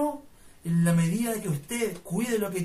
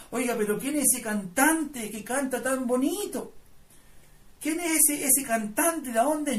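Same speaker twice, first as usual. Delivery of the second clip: raised, wondering questions; impressed curiosity, pitched up; imitated amazement; 4 semitones higher than usual. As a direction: act out an astonished admirer in the crowd. Voicing amazed passers-by admiring his singing.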